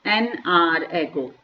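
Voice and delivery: each word laid out slowly; a slow, careful teacher's example; slow model phrase. Shown as a demonstration. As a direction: say it slowly for students to copy. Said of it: "तो हम क्या fill करेंगे".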